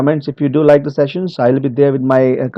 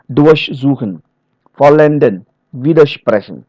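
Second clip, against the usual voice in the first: "durchsuchen, vollenden, widersprechen" leaning past the prefix; unstressed prefixes. Shown as a demonstration. Trainer giving more prefix examples, unstressed prefixes. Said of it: "prefixes are also not stressed".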